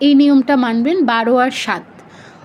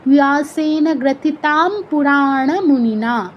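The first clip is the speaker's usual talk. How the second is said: slow, drawn-out verse recitation without a break; in one breath; slower than usual. Shown as a demonstration. Teacher demonstrates the second line of the verse, in one breath. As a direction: stretch the long syllables, never pausing mid-line. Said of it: "এতটুকু একশ্বাসে বলতে হবে".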